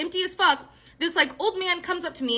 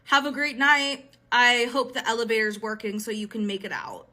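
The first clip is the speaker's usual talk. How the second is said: very serious; 4 semitones lower than usual. Retold or imitated. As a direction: imitate an ominous goodbye, sinking lower at the end. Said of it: "very serious again and goes".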